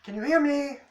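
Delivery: high, loud calling creature voice; calling sea cat. Acted. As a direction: call out across the water like a strange sea beast. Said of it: "he's like".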